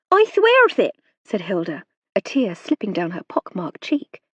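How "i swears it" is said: high, louder rustic servant voice, anxious; a frightened country maid pleading her case; nervous serving girl. A narrator's reading. Hilda voice held.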